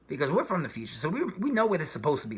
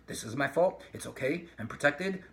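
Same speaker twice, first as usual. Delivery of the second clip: cold lawyer mode; 3 semitones lower, 4 dB quieter than usual. Pretend. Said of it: "go into lawyer mode".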